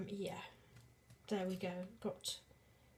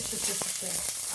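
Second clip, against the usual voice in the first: sizzle noise; much slower than usual. Retold or imitated. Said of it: "You might hear a little shish".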